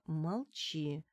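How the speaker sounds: hushed, firm order to keep quiet; commanding whisper. Acted. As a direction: narrator grips her client's shoulder, hushes her in a commanding whisper. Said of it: "повелительно шепнула".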